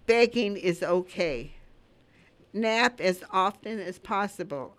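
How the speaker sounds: measured poem recital, pauses between lines; poem reading. Acted. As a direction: read the dog's advice as a gentle verse. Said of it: "here's the message he gave me".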